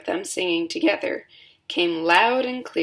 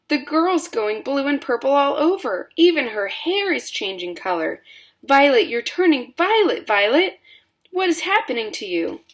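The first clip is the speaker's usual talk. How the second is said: higher, louder frantic cry; panicked mother; 7 semitones higher, 4 dB louder than usual. A narrator's reading. Mother wails as Violet turns purple, higher and louder. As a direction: wail at the change. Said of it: "yelled Missus Beauregard".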